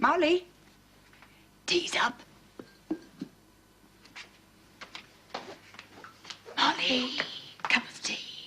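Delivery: whispering. Calling someone to tea while a baby sleeps: whispering. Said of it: "You don't have to whisper".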